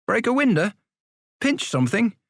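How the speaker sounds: high, wondering guesses; naive boy. Acted. Younger boy asking what crime to commit, naive.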